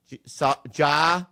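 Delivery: "jaw" said slowly, like "saw" with a J; jaw pronounced. Shown as a demonstration. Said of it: "Say jaw".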